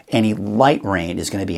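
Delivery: "light" leaned on within the phrase; stress on "light". Real, not acted. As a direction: put the emphasis on "light". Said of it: "I wanna stress the word light".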